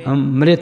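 ਅੰਮ੍ਰਿਤ said "amret", m and r together; nasal start then mret in ਅੰਮ੍ਰਿਤ; vowel sign on m. Shown as a demonstration. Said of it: "ਮੰਮੇ ਨੂੰ ਲੱਗੂਗੀ".

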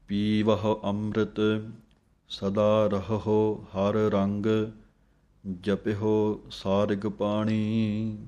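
slow, measured reading of Gurbani; scripture recitation. Shown as a demonstration. Teacher reciting Gurbani slowly for students to copy. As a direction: recite each phrase slowly and clearly.

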